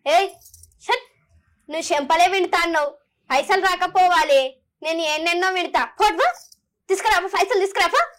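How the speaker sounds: same dialogue redone with jealousy; jealous. Shown as a demonstration. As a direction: sneer it out of envy. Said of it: "ఈర్ష".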